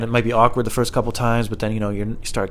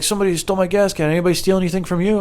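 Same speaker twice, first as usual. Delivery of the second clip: imitating neighbor; 8 semitones higher, faster than usual. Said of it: "He's like".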